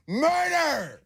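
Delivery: very high-pitched mock scream; imitated scream. Co-host imitating Lucas screaming at the game, high mock scream. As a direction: screech it like a rabid fan in the background. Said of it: "as he screams".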